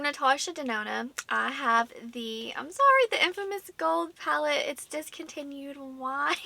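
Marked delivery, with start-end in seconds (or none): 2.6-6.3 mock-dismayed whine, starting high; playful lament. Vlogger bemoaning a discontinued palette, in playful mock dismay.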